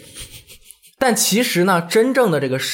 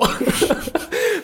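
laugh; 13 semitones higher than usual. Real, not acted. Laughs at crying memory.

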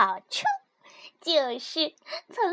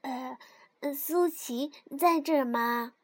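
timid; 6 semitones lower, 5 dB quieter than usual. A narrator's reading. Timid question to frog.

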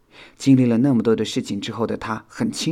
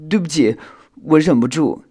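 higher-pitched, bashful apology; shy; 7 semitones higher, 8 dB louder than usual. A narrator's reading. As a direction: apologise shyly. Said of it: "修想害羞地回答道". (害羞地道歉)

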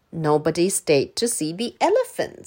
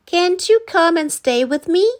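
put-on high boy voice, louder; pleading Danny; 9 semitones higher, 6 dB louder than usual. A narrator's reading. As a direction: beg him to stay. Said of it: "said Danny".

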